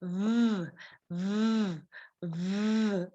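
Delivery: low, sustained buzzing vvv; three long, low v hums; vibrating v. Shown as a demonstration. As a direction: hold a voiced v in the throat. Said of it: "having a vibration".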